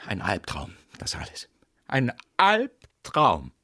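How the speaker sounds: gehauchtes, gedehntes Jammern; flüstere es wie einen bösen Traum; verzweifeltes Flüstern. Acted. Herr Lieblich verzweifelt, geflüstert. (verzweifeltes Flüstern über den Albtraum)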